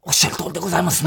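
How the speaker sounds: fast, overly humble apology; mock humble apology. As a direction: rattle off a groveling yes. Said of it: "みたいな".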